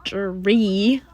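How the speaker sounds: words stretched through a yawn; talking through a yawn. Real, not acted. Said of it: "sorry, yawning".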